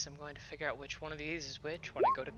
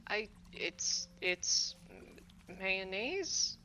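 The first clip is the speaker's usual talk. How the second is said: higher, halting voice with a questioning lift; lightly voiced character, hesitant and higher; imitating Mary; 5 semitones higher, much slower than usual. Player faking another's voice to answer, hesitant imitation. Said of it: "you create an exact replica of Mary's voice".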